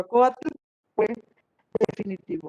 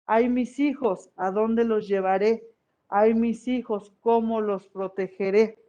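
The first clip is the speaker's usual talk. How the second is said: weeping goddess. Acted. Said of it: "mientras caminaba lloraba y decía".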